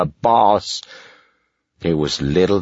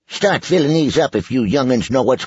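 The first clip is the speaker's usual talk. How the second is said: henchman voice; 8 semitones higher, faster than usual. Acted.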